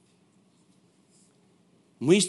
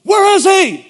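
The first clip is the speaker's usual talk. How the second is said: crowd puzzled; 15 dB louder, slower than usual. Retold or imitated. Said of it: "looking at me ... as if".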